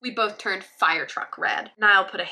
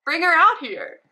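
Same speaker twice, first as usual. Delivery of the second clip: Cheryl voice; 9 semitones higher, 7 dB louder than usual. Acted. Cheryl voiced in retold fanfic.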